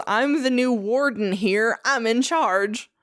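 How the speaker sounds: mild mock yell, stretching the words. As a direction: imitate a self-appointed boss announcing himself. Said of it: "he yells".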